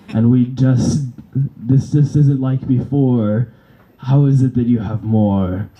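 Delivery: a hint of a puzzled overlord; dark villain voice. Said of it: "a Minister of Darkness versus".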